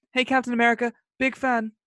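imitated American accent with FAN sliding toward "fun"; American accent that slips British on "fan"; slipping American accent. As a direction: mimic a Brit's imperfect American accent. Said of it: "doesn't do a very good American accent".

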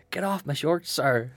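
high mock yell at an opponent; playful retold shout. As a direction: shout it up high, half laughing. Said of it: "shouted at him".

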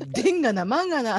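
thick Kansai dialect. Pretend. Co-host suggests how a guest should open, hammed-up Kansai accent. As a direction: play up the Kansai accent for laughs. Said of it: "関西色を出して喋ってもらう".

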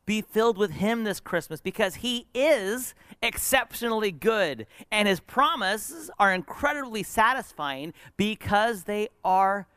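high-pitched, emphatic pulpit delivery, slowing; preaching exhortation. Real, not acted. Preacher urging congregation at Christmas, emphatic exhortation. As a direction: build a slow, high exhortation.

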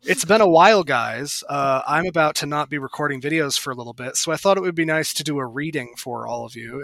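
quick, soft nerdy voice; nerd voice. Retold or imitated. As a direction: rattle it off like a shy YouTuber. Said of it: "like, nerd voice or however he talks".

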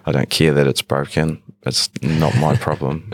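even, indifferent monotone; weary monotone. Acted. Shop worker to customer about broken item, monotone. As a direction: drone it out as if past caring. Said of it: "in the same monotone voice".

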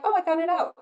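high, loud retold relief; lightly acted burst of release; imitated relieved husband. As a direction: mimic a husband after venting. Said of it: "then he was like".

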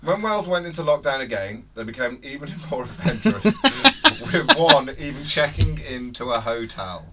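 laughing. Real, not acted. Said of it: "Let me see that again".

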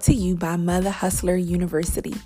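measured, clearly delivered promo read; sponsor ad read. Acted. Host invites mompreneurs to join Mother Hustler University, ad read. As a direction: pitch the program like a podcast sponsor spot.

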